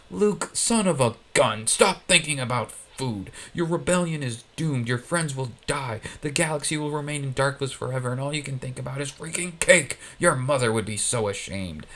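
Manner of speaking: a hint of an exasperated Vader; lightly voiced villain berating his son; lightly voiced Vader, scolding. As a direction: scold like a fed-up dark lord father.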